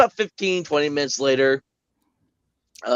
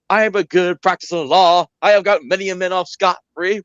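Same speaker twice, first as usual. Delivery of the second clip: Foghorn Leghorn lawyer; 4 semitones higher, 3 dB louder than usual. Retold or imitated. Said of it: "Foghorn Leghorn, it was like".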